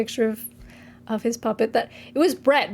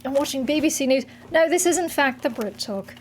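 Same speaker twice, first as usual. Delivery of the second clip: mock British accent. Hosts mock show in British accent.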